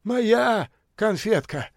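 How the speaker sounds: high, slow jealous claim; possessive retort. A narrator's reading. Kalancha glaring at Beaver, high possessive. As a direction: stake your claim on her. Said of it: "зыркнул на него Каланча".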